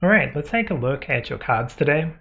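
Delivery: muffled, as if through a hand. Real, not acted. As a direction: speak muffled, covered mouth. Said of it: "Sorry if I'm sounding a little bit muffled".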